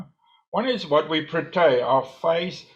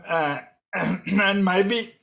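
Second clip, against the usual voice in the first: choking; 3 semitones higher, much slower than usual. Real, not acted. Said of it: "sorry, I'm choking".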